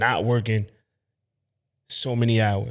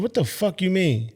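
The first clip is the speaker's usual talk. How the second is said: disbelief; 6 semitones higher than usual. Retold or imitated. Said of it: "And I'm like".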